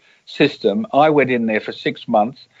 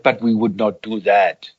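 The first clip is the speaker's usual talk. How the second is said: lightly imitated Swedish lilt; sing-song Swede; 3 semitones lower than usual. Quoting his denial about blackmail, light sing-song Swedish voice. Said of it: "sort of a sing-song voice like a Swede".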